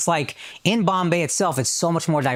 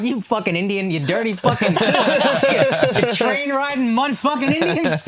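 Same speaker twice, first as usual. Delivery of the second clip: mock racist rant; 8 semitones higher than usual. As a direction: play an over-the-top bigot, laughing through it.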